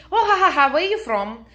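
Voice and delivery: hammed-up stranger's laugh into a nosy question; imitated pushy laugh. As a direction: laugh like a guy who won't take a hint. Stranger laughing, keeps pressing.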